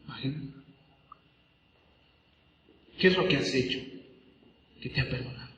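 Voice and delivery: soft, breathy near-whisper; intimate near-whisper. Real, not acted. Preacher invites the congregation to reflect, near-whisper. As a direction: speak softly to each listener.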